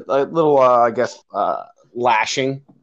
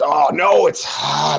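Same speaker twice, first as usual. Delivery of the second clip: mock dismayed outburst; retold "oh no" of alarm; 3 semitones higher, much slower than usual. Retelling coach's dismay mid-run.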